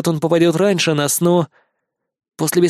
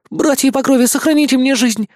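much higher, squeaking mouse plea; squeaky plea; 10 semitones higher, 3 dB louder than usual. A narrator's reading. Captured mouse begging the rats, high squeak. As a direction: squeak out a plea for your life. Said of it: "запищал Шустрик".

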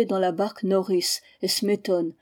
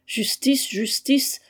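lightly acted scornful disbelief; raised, incredulous exclamation with a touch of disdain; disdainful incredulity; 5 semitones higher, slower than usual. A narrator's reading. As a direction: echo the word as if it were absurd. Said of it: "avec l'incrédulité du dédain".

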